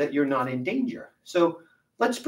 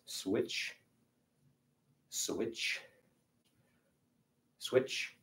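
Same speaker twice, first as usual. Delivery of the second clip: whispered; 4 semitones lower, 11 dB quieter, much slower than usual. Shown as a demonstration. Coach counting drill reps.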